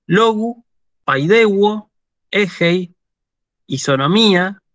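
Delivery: paroxytone words read singly, next-to-last syllable stressed; deliberate citation reading, penultimate accent lifted; reading Greek examples. Shown as a demonstration. Greek teacher reads paroxytone examples to the class, careful demonstration. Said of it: "Las voy a leer".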